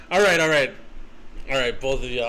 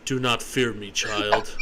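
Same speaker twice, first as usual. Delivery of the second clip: deep voice; 5 semitones lower than usual. Acted. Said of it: "Put on my deep voice".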